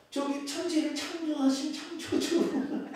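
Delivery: high, slow voice breaking into laughter; comically helpless reply; laughing flustered answer. Retold or imitated. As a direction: sheepishly stammer it out while cracking up. Repeats his flustered answer, laughing.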